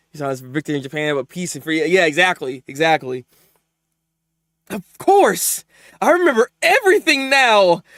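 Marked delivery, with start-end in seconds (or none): 4.7-7.8 a hammed-up lovestruck anime girl, slowed; mock devoted gush. Streamer voicing the anime girl's love for America, hammed-up swoon.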